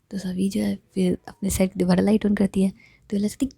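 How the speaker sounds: plain reading voice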